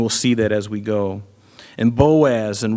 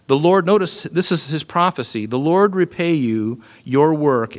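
solemn Bible reading, the ending slows and fades; scripture reading. Acted. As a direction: read the verse aloud with weight.

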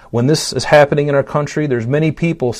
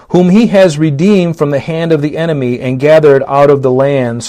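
fervent scripture reading; 4 dB louder than usual. Acted. Preacher reads Psalm one oh seven to the church, fervent and loud. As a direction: proclaim the verses to the congregation.

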